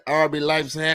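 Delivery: imitating a German accent on Leipzig; mock German accent, Leipzig said like Laipse. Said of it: "I like your, your German accent there".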